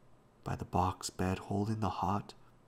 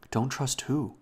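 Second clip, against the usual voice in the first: higher-pitched, puzzled question; bewildered; 5 semitones higher, 4 dB louder than usual. A narrator's reading. Robbie questioning his dying old Da, bewildered. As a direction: ask it in bewilderment, pitch lifted. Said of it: "bewildered by this".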